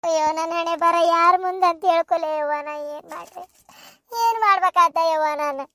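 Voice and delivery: weepy, helpless moan; despairing lament. Acted. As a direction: bewail your fate, sinking almost to nothing midway. Mother bewails her fate.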